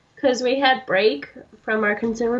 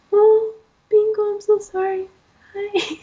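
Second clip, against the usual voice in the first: put-on baby talk to dog; 9 semitones higher than usual. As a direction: coo an apology to a dog. Apologizing to dog.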